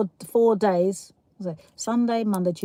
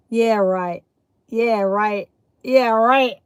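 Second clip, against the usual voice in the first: repeated sceptical retort, building in volume; mock disbelief; 4 dB louder, much slower than usual. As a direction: imitate a doubting cousin, pushing it harder each time. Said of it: "He said".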